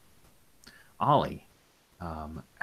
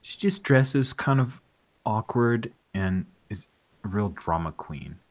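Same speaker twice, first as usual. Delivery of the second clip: put-on girl caller; 2 semitones higher than usual. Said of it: "She says".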